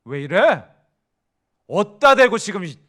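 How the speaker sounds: sharp, loud irritated retort; irritated snap. Retold or imitated. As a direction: bristle back at someone who isn't close. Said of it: "화를 내고 짜증을 내는 순간 이렇게 될걸요". (친하지 않은 사람에게 짜증 내며 크게 받아치기)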